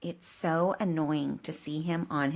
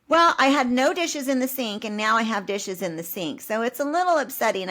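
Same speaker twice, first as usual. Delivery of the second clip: pointed complaint; 5 semitones higher, 3 dB louder than usual. Retold or imitated. Telling husband off over dishes.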